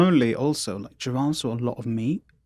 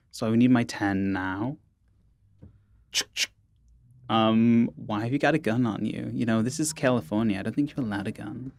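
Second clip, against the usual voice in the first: bad Valley accent. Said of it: "a very bad stereotypical Valley accent".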